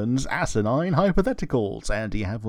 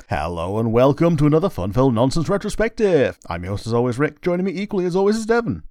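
lilting, practised show-opening spiel; sing-song host introduction; podcast host intro; 4 semitones higher, faster than usual. Acted. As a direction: welcome listeners with a bouncy host patter.

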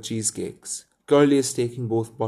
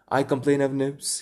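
eager cry; 4 semitones higher than usual. Acted. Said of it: "he cried promptly".

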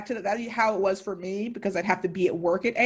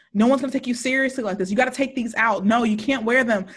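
mildly hammed-up mother telling off; imitated scolding mom; 3 semitones higher than usual. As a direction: lay down the law like a mock mom.

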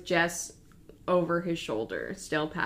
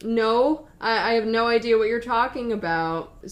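louder, higher retold denial; emphatic denial; 4 semitones higher, 6 dB louder than usual. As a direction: stammer a loud, acted denial. Zola denies knowing anything.

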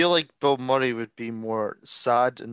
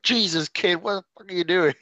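higher-pitched mock exasperated insult; higher, amused impression of a sweary rant; lightly imitated Billy Bob Thornton; 5 semitones higher than usual. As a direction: lightly put on his accent for the insult, amused. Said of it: "his accent and how he pronounces the insults".

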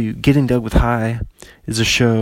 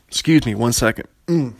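talking while burping. Real, not acted. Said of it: "I'm burping up burritos right now".

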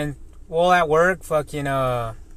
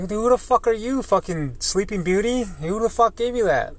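retold angry retort; 7 semitones higher than usual. Retold angry comeback at coworker.

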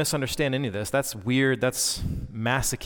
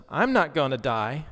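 imitating a three-year-old; 3 semitones higher than usual. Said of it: "asserted boldly with a little quiver".

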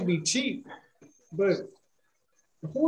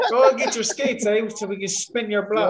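half-laughing caricature Minnesotan; joke-threaten in a put-on Minnesota accent; mock Minnesota accent; 2 semitones higher than usual. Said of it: "I don't even got a Maine accent to give you".

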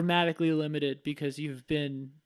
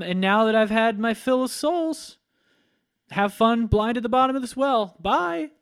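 gloating sorcerer; 3 semitones higher, 4 dB louder than usual. Retold or imitated. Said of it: "he says".

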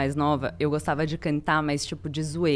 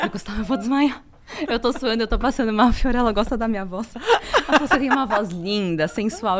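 higher-pitched, mock-swooning excitement; melted fangirl gushing; 4 semitones higher than usual. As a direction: gush as if about to faint, playfully. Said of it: "E eu fiquei derretida".

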